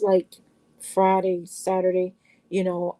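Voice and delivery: normal talking voice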